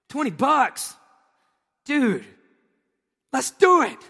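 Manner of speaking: high, loud eager yelp of a broke student; eager excitement. Retold or imitated. Broke student hearing of easy cash, high eager excitement. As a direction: jump at the twenty bucks like a kid. Retold eager younger self.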